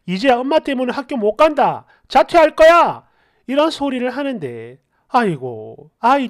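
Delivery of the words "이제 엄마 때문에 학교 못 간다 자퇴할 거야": mild reproachful outburst, rising at the end; narrated child's blaming cry, a bit restrained; resentful yelling. Acted. Child blaming mother for ruined school, mock resentful yell. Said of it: "미친 듯이 고함을 지르고 저를 막 원망하면서".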